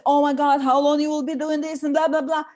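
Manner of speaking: loud exasperated moaning; whinging. Shown as a demonstration. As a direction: complain like a fed-up mother. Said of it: "coming and whinging".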